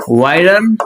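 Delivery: વાયરન alone, rising at the end; sounded out. Shown as a demonstration. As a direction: dictate વાયરન as one chunk with a rise. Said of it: "ટુકડા ટુકડા પાડીને". (વાયરન છૂટું પાડીને, ચડતા સૂરે)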